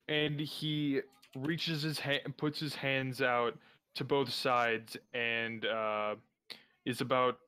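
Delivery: winded and slowed, after a workout; out of breath. Real, not acted. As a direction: talk while catching your breath. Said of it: "Sorry, I'm catching my breath here".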